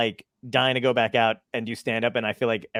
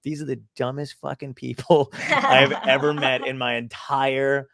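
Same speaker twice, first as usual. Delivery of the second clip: laughing quote; slower than usual. Retold or imitated. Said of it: "I'm like".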